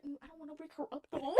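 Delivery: quick, very soft hedging; retold quiet objection; hushed reluctance. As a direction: murmur it rapidly, unwilling. Reluctant to wake mom at night.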